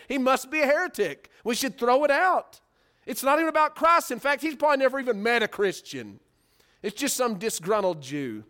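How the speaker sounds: lightly voiced Luther, worked up then dismissive; mock outraged Luther. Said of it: "couldn't fathom it and said".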